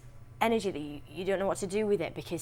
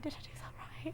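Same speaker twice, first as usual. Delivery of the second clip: a quick, anxious whisper, higher up, checking with the coach mid-scene; panicked whisper; 11 semitones higher, 12 dB quieter than usual. Retold or imitated. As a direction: whisper it like someone afraid they got the line wrong.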